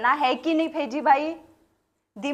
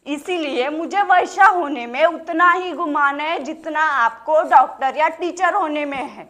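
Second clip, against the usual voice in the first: raised, emphatic oratory; proud declaration; 4 semitones higher, 4 dB louder than usual. Acted. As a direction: proclaim it proudly to the whole crowd. Proudly declares her profession to crowd.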